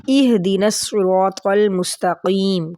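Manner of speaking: اہدنا starting with a clear i under the hamza; ihdina with i. Shown as a demonstration. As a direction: begin اہدنا on a short i. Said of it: "حمزہ کے نیچے زیر ہے".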